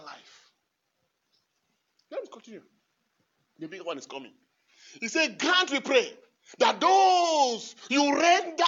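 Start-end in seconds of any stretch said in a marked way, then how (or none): 5.4-8.6 loud reading breaking into laughter; laughing through the prayer. Real, not acted. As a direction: lose it to laughter mid-line.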